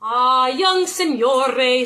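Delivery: lightly voiced aunt teasing; knowing old aunt. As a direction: savor the words like a sly aunt. Aunt answers slowly.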